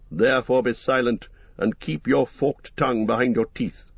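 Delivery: a hint of a stern wizard, crisp and unbending; clear cold voice. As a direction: rebuke the serpent coldly, every word firm. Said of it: "he spoke in a clear, cold voice".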